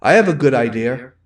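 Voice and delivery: "idea" rhymed with deer; R added to idea. Shown as a demonstration. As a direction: say "idea" with an R on the end, like "idear". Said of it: "We add R's where we shouldn't".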